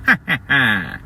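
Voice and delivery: short, staccato put-on laugh; mock villain laugh. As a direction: laugh like a storybook bad guy. Villain's laugh in told story.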